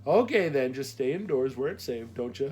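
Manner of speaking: motherly advice with a Midwestern lilt; Midwestern accent. A narrator's reading. Postmaster warns Mac to stay indoors, Midwestern accent. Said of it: "her Midwestern accent left no doubt".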